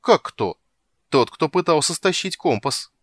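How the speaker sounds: loud, high indignant reply. Acted. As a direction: protest with indignation.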